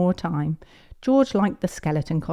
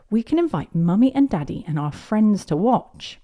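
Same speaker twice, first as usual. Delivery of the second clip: put-on higher, lively little-girl voice; lightly voiced eager child; excited child planning; 4 semitones higher, 3 dB louder than usual. Peppa excitedly planning a show.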